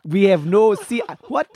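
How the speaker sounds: a playful mock Nigerian prince, understated; Nigerian accent. Friend egged on to voice the Nigerian prince, light Nigerian accent. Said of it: "let him do his Nigerian accent here".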